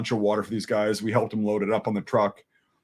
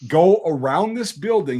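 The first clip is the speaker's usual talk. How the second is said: slow, louder, spelling it out; firm instruction; 3 semitones higher, 6 dB louder, slower than usual. Retold or imitated. Soldier redirecting a lost Marine, slow and emphatic. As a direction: lay out the directions slowly like he's dense. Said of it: "I'm like".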